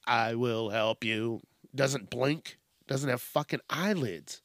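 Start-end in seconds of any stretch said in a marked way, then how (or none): 0.1-1.4 slow, level robot monotone; lightly voiced helper robot, measured and slow; a hint of a droning robot. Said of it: "trying to get it to help me".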